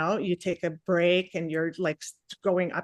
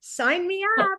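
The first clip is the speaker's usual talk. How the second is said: mock delighted; 4 semitones higher than usual. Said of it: "And I'm like".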